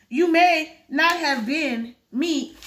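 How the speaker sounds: slow, stretched out on may; dragging the line, may drawn out; misread slow line. Shown as a demonstration. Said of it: "You may not have seen me".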